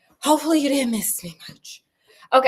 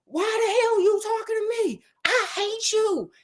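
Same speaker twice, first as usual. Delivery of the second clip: much higher, screechy mock Hyde; shrill high-pitched hammed-up thug; 11 semitones higher than usual. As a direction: squeal it like a cartoon villain. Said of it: "Mister Hyde is like".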